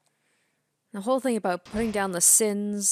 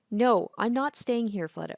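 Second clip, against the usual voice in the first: forceful refusal; 3 semitones higher, 3 dB louder than usual. Acted. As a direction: put your foot down with Fleta. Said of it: "my character was not this, uh, forceful before".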